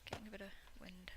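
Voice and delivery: whispered with a laugh; whispering laugh. Real, not acted. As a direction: giggle under your breath. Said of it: "I've got the hiccups".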